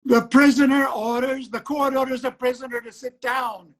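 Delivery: irritated judge raising his voice. Acted. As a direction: slam the words down to silence her. Judge silencing the defendant.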